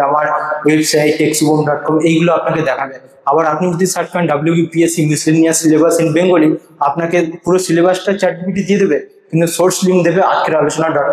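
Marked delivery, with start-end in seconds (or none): 4.3-6.5 slow dictation. Shown as a demonstration. Reading an example search query.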